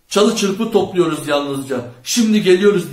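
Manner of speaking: loud, called-out answer; shouting back. A narrator's reading. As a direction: shout a reply into the distance. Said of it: "diye bağırdı Charlie".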